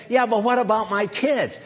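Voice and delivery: lightly acted protest to the boss; mildly protesting, imitating a doubter; mock objection. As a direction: push back with an acted 'yeah, but'. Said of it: "you don't have to say".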